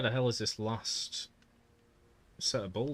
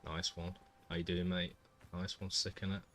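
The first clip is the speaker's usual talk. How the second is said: lower-pitched Mancunian; Manchester accent; 3 semitones lower, 4 dB quieter than usual. Shown as a demonstration. Streamer showing the accent they can obviously do, Mancunian accent. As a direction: chat in a low Manchester accent. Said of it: "I can obviously do Manchester".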